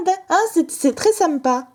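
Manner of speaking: touch of a south-of-France twang; southern French accent. Pretend. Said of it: "Pourquoi je fais mon accent du sud".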